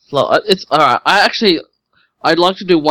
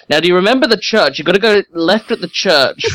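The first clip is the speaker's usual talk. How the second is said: put-on old man voice; 4 semitones higher than usual. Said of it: "really old guys that stands on the side of the road".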